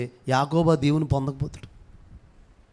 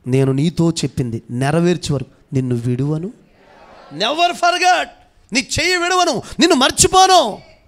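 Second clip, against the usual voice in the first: God's promise proclaimed; 6 dB louder than usual. Retold or imitated. God promising Jacob never to leave him, loud proclamation. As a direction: swear it like an unbreakable promise. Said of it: "అన్నాడు కదా".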